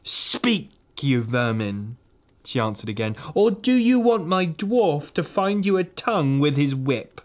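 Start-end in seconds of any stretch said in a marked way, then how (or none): 0.0-2.0 angry command. Acted. Witch threatens the animals. 3.3-7.2 higher, louder cruel threat; threatening witch. Acted.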